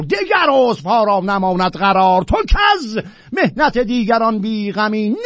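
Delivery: solemn verse reading; poem recitation. Acted. Reciting Sa'di's poem aloud.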